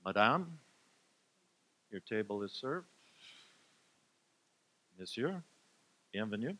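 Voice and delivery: French waiter, lightly put on; a hint of a fancy French host; snooty maitre d. Seating couple as waiter.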